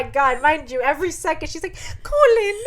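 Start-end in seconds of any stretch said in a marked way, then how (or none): 2.0-2.7 high, loud hammed-up name call; mock distressed cry. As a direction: cry his name in pretend distress, breaking into laughter. Imitating her constant breathless cries.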